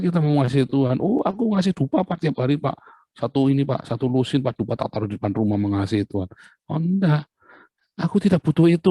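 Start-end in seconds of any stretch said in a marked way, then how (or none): 1.0-6.3 boastful worshipper. Acted. Worshipper boasting of incense offerings. 6.7-8.9 higher, firm voice of God turning down the offering; God refusing. Acted. God answers the boastful worshipper, firm refusal.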